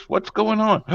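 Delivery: voz alta de esposa medio dormida; sleepy wife imitated. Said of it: "they woke up, came upstairs".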